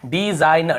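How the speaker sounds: "डिजाइन" drawn out in parts; demonstrated pronunciation. Shown as a demonstration. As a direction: sound out "डिजाइन" slowly as dee-zain. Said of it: "हम इसे क्या पढ़ रहे हैं".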